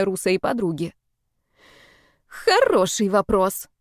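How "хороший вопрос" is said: slow groaning voice. Acted. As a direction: moan it out in disgust. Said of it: "простонала Женя".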